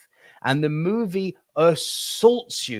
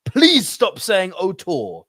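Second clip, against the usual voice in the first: louder and slower, pleading Please stop saying auteur; exasperated plea; 7 semitones higher, 5 dB louder, slower than usual. Real, not acted. To American viewers, an exasperated plea. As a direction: beg them to stop, fed up. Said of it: "pet peeves".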